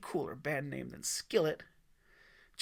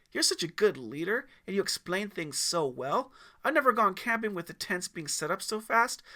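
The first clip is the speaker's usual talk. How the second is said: put-on eager teen scout; 3 semitones higher, 5 dB louder than usual. Teen flatters scout leader eagerly.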